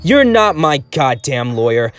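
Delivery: furious gangster. A narrator's reading. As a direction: spit the words back at them. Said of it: "he spat back".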